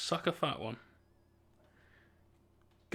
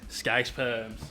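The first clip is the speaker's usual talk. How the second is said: softer, under the breath; quiet repeat; 4 semitones lower, 5 dB quieter than usual. Real, not acted. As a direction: let "Scouse perms" drop softly, almost to yourself.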